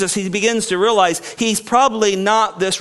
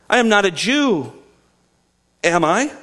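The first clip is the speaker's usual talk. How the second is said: mildly indignant retort; lightly irritated Pilate; a little indignant. Retold or imitated. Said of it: "getting a little indignant here".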